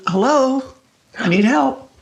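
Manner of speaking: mild mock call down the hall; calling for help. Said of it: "And I started calling".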